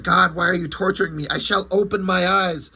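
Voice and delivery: mock tormented outcry without full volume; hammed-up comic-book anguish; retold screaming.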